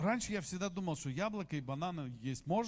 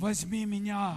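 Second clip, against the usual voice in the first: tempting chocolate; slower than usual. Acted. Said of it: "Snickers schreien sie an".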